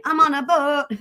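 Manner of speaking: a light sung hook in the style of a singer; a hint of an imitation of a singer. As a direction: sing it as a singer would. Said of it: "I'll do the singer".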